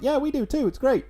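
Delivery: high, loud gushing answer; mock eager reply. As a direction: overdo the friendly enthusiasm. Acts out hosts' gushing reply.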